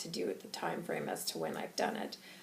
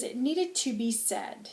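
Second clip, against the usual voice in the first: slow, insistent defence; passionate conviction; 5 semitones higher than usual. Acted. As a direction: stress it as a necessary truth. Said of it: "I'm very angry and I'm very passionate".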